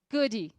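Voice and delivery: "goody" with a vowel after the d; Brazilian-style "goody" ending in ee; two-syllable good. Shown as a demonstration. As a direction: split it into "goo-dy". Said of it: "vou falar das duas formas".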